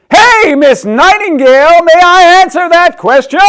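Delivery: put-on high, loud, eager girl; loud child voice. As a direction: still booming when told to hush. Loud girl calls out in class.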